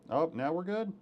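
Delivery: high, bright relief; relieved excitement. Real, not acted. Audio finally works.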